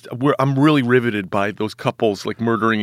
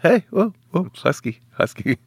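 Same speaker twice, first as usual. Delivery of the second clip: laughing protest; 6 semitones higher than usual. Real, not acted. Protests being called fat.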